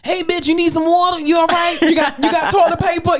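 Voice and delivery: mock-sweet checking in; caring friend check-in. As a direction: play the friend who should have called. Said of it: "you haven't even called to say".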